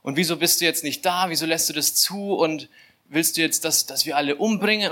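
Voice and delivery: retold anxious, protesting prayer; panicked prayer. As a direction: imitate a man arguing with God in mild panic. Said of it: "so ein totaler Panikmodus irgendwie".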